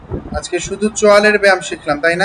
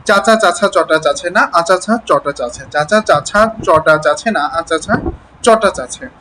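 slow repeated twister; slower than usual. Shown as a demonstration. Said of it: "অনেকবার বলতে হবে".

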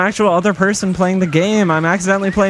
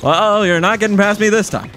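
lightly imitated halting politician; Obama. Player taunts as a game boss, light Obama impression. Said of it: "He's toxic ... Obama".

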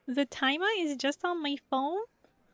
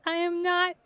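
usual speaking voice

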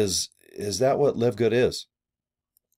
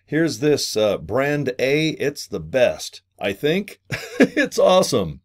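higher-pitched hyped-up sales pitch, lightly acted; mock excitement; 4 semitones higher, slower than usual. Seller hyping a brand to recruits, mock excited. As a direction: play at getting people excited, breaking into a laugh. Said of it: "getting people excited like".

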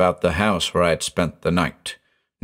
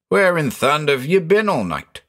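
incredulous question, pitched higher; exclaiming; 6 semitones higher than usual. A narrator's reading. Countryman questioning the stranded motorist, exclaiming. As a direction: exclaim it in disbelief. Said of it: "he exclaimed".

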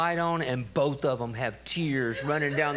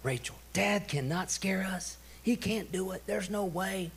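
imitated children's bickering; 5 semitones higher, 4 dB quieter than usual. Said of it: "the conversation was awesome".

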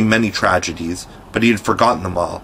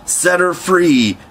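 higher, slow commanding order; Hook voice order; 8 semitones higher, slower than usual. A narrator's reading. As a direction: Peter as Hook orders the pirates, slowly and high. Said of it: "came the astonishing answer".

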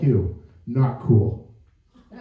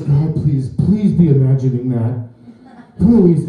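scared plea; 3 semitones lower, 3 dB louder than usual. Retold or imitated.

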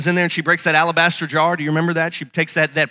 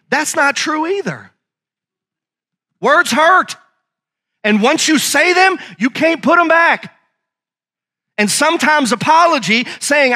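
higher-pitched, forceful preaching; emphatic preaching; 6 semitones higher than usual. Acted. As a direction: drive each phrase home to the congregation. Preacher drives the point home.

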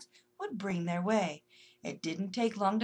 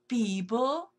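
surprised question; 3 dB louder than usual. Acted. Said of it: "taken completely by surprise".

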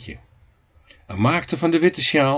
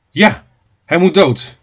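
loud, emphatic cry of agreement; crowd shout; 3 semitones higher, 7 dB louder than usual. A narrator's reading. Neighbours all agreeing the cat must die, loud shout. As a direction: shout the verdict as the whole mob. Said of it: "riep iedereen".

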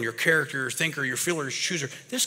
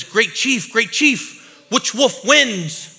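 put-on high, slow, wide-eyed kid; eager young kid; 7 semitones higher, 6 dB louder, much slower than usual. Boy asks the chief which wolf wins, awed and slow. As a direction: draw out the question like an awed child. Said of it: "And he says".

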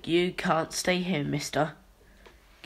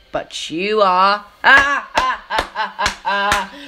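loud, high mocking cackle; gloating laugh; 4 semitones higher, 11 dB louder than usual. Clown gloating as the other is arrested, cackling. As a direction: laugh in his face.

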